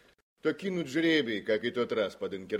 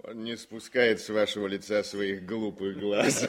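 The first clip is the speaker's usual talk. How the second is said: teasing laugh; 3 semitones lower than usual. Acted.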